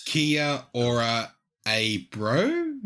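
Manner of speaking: slow, drawn-out hint of a New Zealand accent; mock New Zealand accent. Teasing friends about a bad audiobook accent, mock New Zealand accent. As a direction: lightly put on a Kiwi accent, stretching it out.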